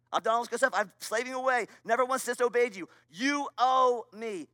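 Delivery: mildly aggrieved, pressing a claim, dragging out the last demand; a touch of entitled complaint; self-righteous older brother. Acted. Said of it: "here's what the older brother sounds like".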